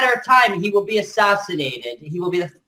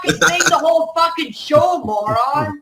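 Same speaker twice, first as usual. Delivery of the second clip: higher, angry yelling insult; furious shout; 7 semitones higher than usual. Real, not acted. Guest rages that he hasn't spoken all show, furious. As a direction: rant at him, voice cracking up high.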